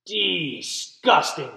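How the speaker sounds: slow, drawn-out disgust; disgusted sister. Acted. Lily reacting to her baby brother, slow and disgusted. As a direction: stretch it out in disgust. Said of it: "said Lily".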